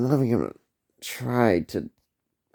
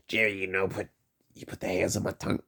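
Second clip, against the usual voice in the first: Seinfeld impression; 3 dB quieter, faster than usual. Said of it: "I'm doing that impersonation".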